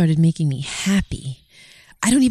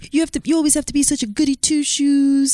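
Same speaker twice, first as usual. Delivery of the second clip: high teasing mimicry; mimicking his peer pressure, high and teasing; mocking imitation; 9 semitones higher than usual. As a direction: keep the coaxing imitation going up high. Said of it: "You were like".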